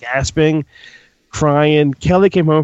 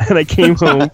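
laughing; 3 semitones higher than usual. Real, not acted. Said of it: "I'm telling my story first".

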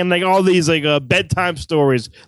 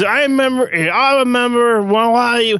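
drawn-out, hammed-up Australian accent; poor Australian accent; 4 semitones higher, slower than usual. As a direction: badly imitate an Australian guy, higher and stretched. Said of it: "in his awesome accent".

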